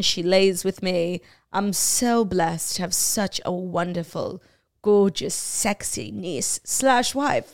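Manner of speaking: slow, drawn-out mock British accent; put-on British accent. Husband boasts of his niece-wife, mock British accent. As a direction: play a besotted royal in British English. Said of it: "nervous about my British accent".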